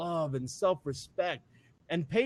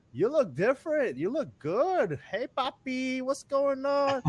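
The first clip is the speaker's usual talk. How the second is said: admiring onlookers; 8 semitones higher than usual. Retold or imitated. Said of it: "they're like".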